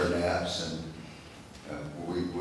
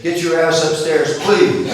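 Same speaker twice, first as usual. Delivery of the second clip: put-on higher, louder cheeky kid tacking on a proud please; grandson's polite retry; 8 semitones higher, 11 dB louder than usual. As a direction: deliver the rude order with innocent politeness. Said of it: "We say please and thank you".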